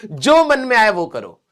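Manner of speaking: mom's loaded taunt. Retold or imitated. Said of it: "mummy ना एक delusional उसमें डाल देती है".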